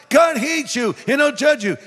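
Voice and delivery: high-pitched mimicked street-preacher yell; mock yell. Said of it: "he's still yelling".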